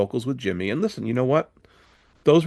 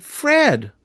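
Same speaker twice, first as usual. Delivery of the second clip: loud hail; 6 dB louder than usual. Retold or imitated. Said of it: "and he said".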